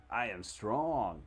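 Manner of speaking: I am strong spelled out very slowly, each word weighed; slow deliberate. Shown as a demonstration. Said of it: "I'm still s-, storing".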